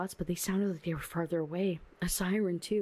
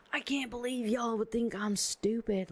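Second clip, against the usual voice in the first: higher-pitched, indignant protest; offended boyfriend; 5 semitones higher than usual. Acted. Duncan confronts the twins who tried to trick him, offended. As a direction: play it wounded and affronted, pitched up. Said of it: "he's like".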